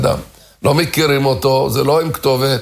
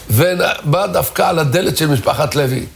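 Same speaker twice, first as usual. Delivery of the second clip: ordinary delivery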